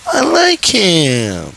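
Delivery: put-on girl begging the house to spare him; pleading to the house. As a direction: coax the house to stay calm. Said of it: "and is just like".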